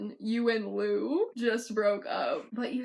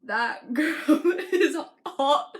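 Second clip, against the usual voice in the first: louder, laughing mock British accent; bad British accent breaking into laughter; 6 semitones higher, 7 dB louder, slower than usual. Zayn admiring a girl in the imagine, laughing British accent. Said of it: "I should read these in British accents".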